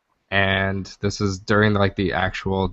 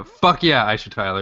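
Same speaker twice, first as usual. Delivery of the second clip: cheering. Real, not acted. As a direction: whoop it out for her. Cheering the celebrity.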